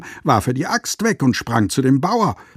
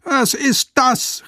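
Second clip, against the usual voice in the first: shrill, much higher, drawn-out outrage; exclaimed; 13 semitones higher, slower than usual. A narrator's reading. Master appalled at the carpenters, high slow outcry. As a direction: draw the question out, appalled. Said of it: "rief er".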